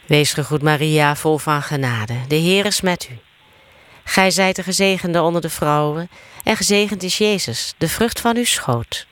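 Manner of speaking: steady chant-like Hail Mary; prayer recitation. Real, not acted. Leading the Hail Mary for others to answer, steady prayer recitation. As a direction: recite in an even, practised cadence.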